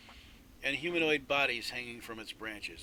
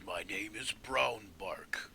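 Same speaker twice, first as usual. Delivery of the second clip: slow whispered tree name; slower than usual. Acted. Tree creature names itself.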